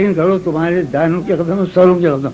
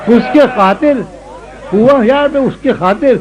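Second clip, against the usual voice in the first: ghazal recitation; 4 semitones higher than usual. Acted. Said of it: "یہ غزل سنو".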